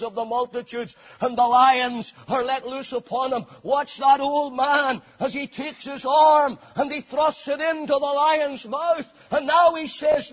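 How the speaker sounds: ringing, rolling sermon delivery; full-force preaching. Real, not acted. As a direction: preach it with building momentum.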